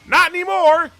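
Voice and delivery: loud, high exclamation; emphatic outburst. Real, not acted. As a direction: blurt it out, fed up. Outburst about missing camera feature.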